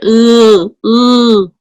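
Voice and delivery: failed open-mouth vowel. Shown as a demonstration. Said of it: "¿Cómo pronunciaría?".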